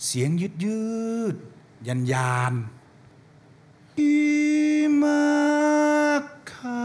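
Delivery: drawn-out eerie ghost moan; slow motion. Shown as a demonstration. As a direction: stretch it out slowly, high. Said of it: "ต้องมีเอฟเฟกต์ก่อน".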